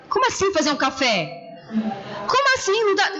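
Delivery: mock indignant outburst, retold; exasperated disbelief. Wife retells objecting to her husband, exasperated.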